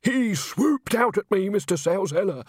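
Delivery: attention-loving, high-voiced witness; delighted melodrama. A narrator's reading. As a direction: play the victim for the boss. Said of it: "delighted to have centre stage again".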